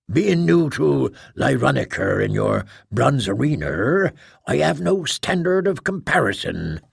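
dry, flat and unmoved. Acted. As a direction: answer with no feeling at all. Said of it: "Tough said in a flat voice".

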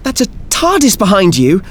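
high, gleeful nasal voice; bubbling with wonder, high; childlike glee. Acted. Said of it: "childlike glee and inquisitiveness".

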